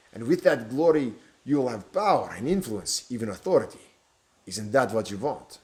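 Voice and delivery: silky, lightly foreign stranger; tempting villain. Acted. Stranger tempting the bishop with glory, silky. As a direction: dangle power like bait.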